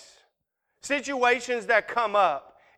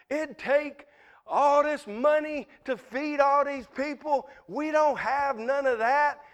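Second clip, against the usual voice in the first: higher-pitched mock fretting; all worked up; 5 semitones higher than usual. Disciples fretting to Jesus about feeding the crowd, worked up. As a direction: imitate flustered disciples protesting. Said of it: "they get all tore up about it".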